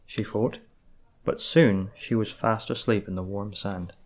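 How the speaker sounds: calm, gentle bedtime reading; story narration. Acted. Reads calm story paragraph.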